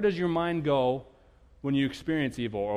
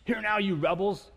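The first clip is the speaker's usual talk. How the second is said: slow, higher, louder scolding; angry rebuke; 6 semitones higher, 4 dB louder than usual. Retold or imitated. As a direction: bark at the rebels like Moses. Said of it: "Moses responded in anger".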